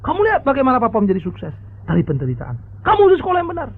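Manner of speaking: lecturing father. Acted. Father reminds his spoiled son how poor he was, stern. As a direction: preach hardship at the son. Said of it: "Dia bilang".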